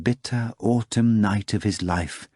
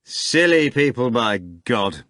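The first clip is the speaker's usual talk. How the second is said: shrugging actor; 2 semitones higher, slower than usual. Acted. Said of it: "the actor said, shrugging".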